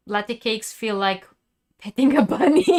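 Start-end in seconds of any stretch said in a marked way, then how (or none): 1.8-2.7 delighted squeal. Real, not acted. Reading a viewer's comment delightedly.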